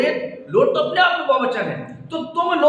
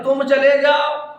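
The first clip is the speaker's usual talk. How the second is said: a louder, curt "तुम चले जाओ" as the wrong way to address father; louder blunt command to a father; blunt disrespectful; 4 dB louder than usual. Shown as a demonstration. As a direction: toss off an order to your father with no respect. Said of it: "तो नहीं कहोगे".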